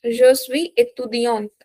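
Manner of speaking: "étudiante" with the last syllable closed by a consonant; stressed feminine ending. Shown as a demonstration. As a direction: lean on the end of "étudiante". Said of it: "Some more stress".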